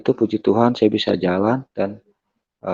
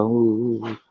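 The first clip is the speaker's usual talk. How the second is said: mock crying "uh-uh-uh"; imitated sobbing; 2 semitones higher, slower than usual. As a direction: imitate mother's sobs, lightly. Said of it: "orang tua saya sudah nangis". (menirukan isak tangis ibu)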